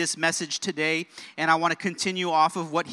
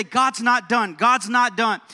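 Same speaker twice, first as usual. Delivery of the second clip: raised voice, leading the congregation's repeat; call-and-response lead; 4 semitones higher, 5 dB louder, slower than usual. Shown as a demonstration. Preacher asks church to say it with him, raised lead. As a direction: give them the phrase to echo, lifted. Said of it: "I want you to say this with me".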